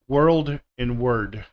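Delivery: "world" with a clear L, "word" without; slow, careful "world and word"; world and word contrasted. Shown as a demonstration. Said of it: "words where people confuse".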